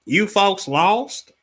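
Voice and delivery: slow Southern cop drawl. Retold or imitated. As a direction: draw it out like a Southern trooper. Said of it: "he said it in that southern drawl".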